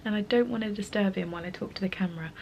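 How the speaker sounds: whispering so husband keeps sleeping; soft unvoiced whisper; hushed whisper. Real, not acted. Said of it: "And if I'm talking weird, by the way, my husband is asleep".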